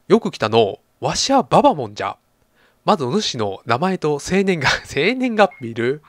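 lightly voiced old granny; a hint of an old sage; old Baba-mon voice.

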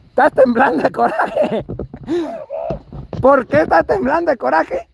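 breaking into a laugh while asking; amused laughing question. Real, not acted. Amused at Lupe trembling with anger. (pregunta entre risas)

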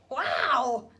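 loud happy wow; thrilled wow. Acted. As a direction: beam with delight. Norman thrilled after fall.

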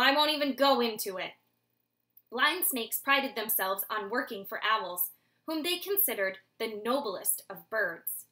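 reading a novel aloud to the class; story narration. A narrator's reading. Teacher reading the owl story to her class, storytelling voice. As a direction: tell the tale, evenly paced.

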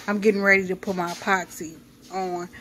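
quick, muffled through a mask; muffled talk behind a face mask. Real, not acted. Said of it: "I sound muffled".

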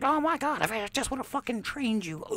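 high strained mock dying gasp; dying Mickey. Mickey with a failing heart, high strained regret. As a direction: squeeze it out high as a dying man. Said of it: "Mickey's heart's like".

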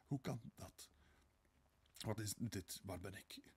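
bewildered, half-voiced mumble; lost, stunned muttering; dazed murmuring. A narrator's reading. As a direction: murmur it as if not in your senses. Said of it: "prevelde ze in uiterste verdwazing".

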